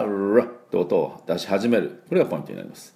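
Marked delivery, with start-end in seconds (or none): 0.0-0.4 ラ with the English R readied and held before release; prepared R onset. Shown as a demonstration. Teacher showing how to start the R, prepared onset. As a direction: draw out the R before letting ラ go. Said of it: "このRを準備してから".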